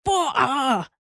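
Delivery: high two-part bleat; high-pitched calf cry; calf bawl. A narrator's reading. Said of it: "said Star".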